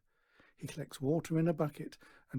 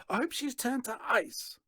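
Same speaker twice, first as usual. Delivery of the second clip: yelling; 11 semitones higher than usual. A narrator's reading. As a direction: hurl it through the door. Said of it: "yells Natasha".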